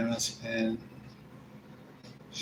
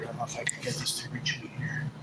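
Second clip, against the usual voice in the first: whispering; 6 dB quieter, faster than usual. Real, not acted. Whispering while adjusting position.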